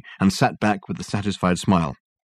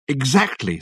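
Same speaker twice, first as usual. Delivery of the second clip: excitedly; 5 semitones higher, slower than usual. Acted. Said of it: "said Dirk excitedly".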